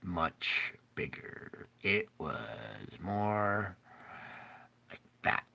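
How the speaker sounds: soft awestruck whisper; awed whisper. Real, not acted. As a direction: breathe it like a secret wonder. Describing God's huge hand.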